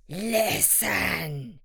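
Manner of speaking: drawn-out bear's call for attention; stubborn bear. A narrator's reading. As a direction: draw the word out as a stubborn bear. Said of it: "he said to the tiger".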